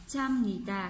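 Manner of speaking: "cham nita" with an m closing cham; p read as m. Shown as a demonstration. Teacher showing students how the verb is read, with m in cham. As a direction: slowly say "cham nita", nasal m before n. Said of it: "Cham chứ không phải là".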